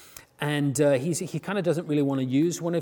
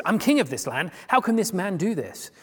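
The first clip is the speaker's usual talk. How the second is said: raised, heated outrage of a wronged king; furious; 6 semitones higher than usual. Retold or imitated. King David furious at the story of the stolen lamb. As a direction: speak as a king outraged at injustice. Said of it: "He's furious".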